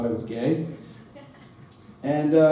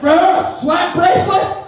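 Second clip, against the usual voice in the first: much higher, loud squeaky nostalgia nerd; mock desperate nostalgic guy; 12 semitones higher, 5 dB louder than usual. Mocking a party guy begging for approval, loud squeaky voice. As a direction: squeal it like a needy nineties fan.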